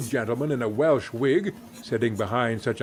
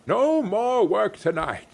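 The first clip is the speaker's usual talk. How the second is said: high, bouncing hearty orders; jolly cry; 6 semitones higher than usual. A narrator's reading. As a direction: cheer the boys into action. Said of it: "cried old Fezziwig".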